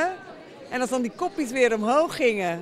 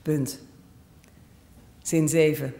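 dictation reading; 5 semitones lower than usual. Acted. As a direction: read it out like a dictation. Dictation read aloud. (langzaam voorgelezen dictee)

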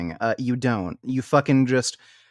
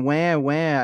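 mock crying; 2 semitones higher than usual. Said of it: "crying about it".

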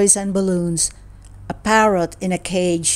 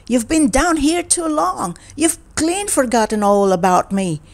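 still angry; 5 semitones higher than usual. Acted. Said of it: "Jerry was still angry".

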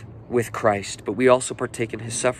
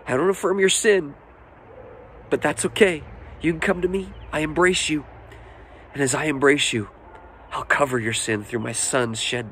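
higher-pitched, earnest reassurance; heartfelt fatherly appeal in a raised pitch; Father God speaking; 4 semitones higher than usual. Acted. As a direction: reassure them as an accepting Father. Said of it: "The Father says".

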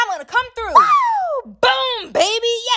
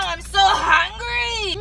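whiny crying; much slower than usual. Acted. Kid begging for a snack.

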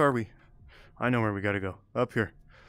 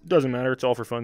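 talking through hiccups; hiccuping between words. Real, not acted. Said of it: "I got the hiccups here".

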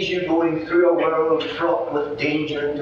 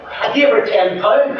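put-on high, slow and louder old woman's boast; proud old lady; 8 semitones higher, 6 dB louder than usual. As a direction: drag it out proudly as the old dear.

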